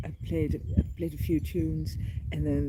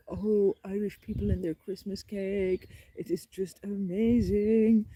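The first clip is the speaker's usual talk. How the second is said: slow, stretched-out gushing; raving admiration; 3 semitones higher, slower than usual. Real, not acted. Storyteller raves about Christmas cake, slow gushing delight. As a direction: savour every word, rising in praise.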